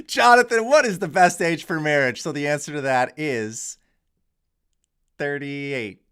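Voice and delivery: loud, high, hammed-up British accent; bad British accent. A loud, bad British accent, asking Jonathan questions on a video. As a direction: ham up a British accent and don't quite hold it. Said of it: "That is a terrible British accent".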